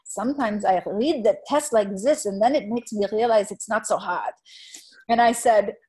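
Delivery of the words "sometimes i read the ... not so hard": put-on light quasi-German Einstein accent; a hint of an Einstein German accent; German genius accent. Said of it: "she actually did the genius accent".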